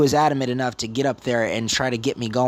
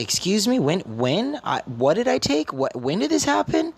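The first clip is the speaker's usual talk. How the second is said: high, climbing questions of disbelief; shocked customer protesting an accusation; incredulous protest; 8 semitones higher than usual. Retold or imitated. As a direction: demand answers, stunned and rising.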